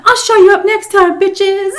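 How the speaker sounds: high, loud mock yelling while dragged out; retold drunk yelling at the strippers, high and loud; drunken shouting. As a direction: scream insults over your shoulder. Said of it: "I'm all talking shit".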